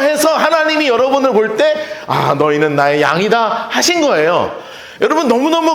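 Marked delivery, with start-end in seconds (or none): 2.1-3.7 low, slow, tender voice of God; gentle, low divine voice. Retold or imitated. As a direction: speak it slowly and low as God claiming his own. God's words voiced.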